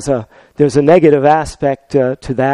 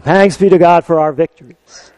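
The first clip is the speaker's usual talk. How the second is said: ordinary delivery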